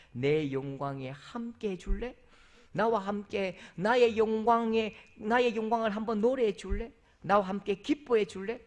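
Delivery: tender invitation. Retold or imitated. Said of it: "아가스의 말씀 그대로".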